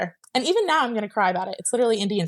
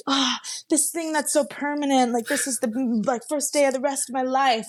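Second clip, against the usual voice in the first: higher, starry-eyed anticipation; mock dreamy excitement; 5 semitones higher than usual. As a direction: gush about the big day ahead. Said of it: "those whole nine months leading up to it".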